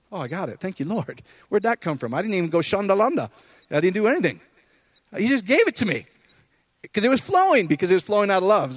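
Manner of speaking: retold sudden delight. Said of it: "go, boom".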